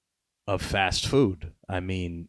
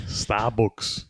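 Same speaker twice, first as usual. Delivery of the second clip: put-on accidental Liverpool accent; botched Russian accent sliding into Scouse; rough stab at a Scouse accent; Scouse accent attempt; 2 semitones higher than usual. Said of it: "A Scouser".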